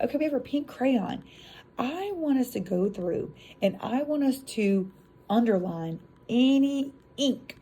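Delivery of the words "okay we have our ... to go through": teacher voice. Retold or imitated. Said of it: "So then you're like".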